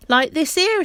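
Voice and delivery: loud, high, emphatic; he can't believe she doesn't know; a hearty porter pressing the point; insistent Perks. Acted.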